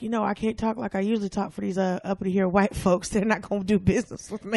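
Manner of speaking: imitating a man's Southern accent. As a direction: retell him with a light Southern twang. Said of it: "had to drop his Southern accent".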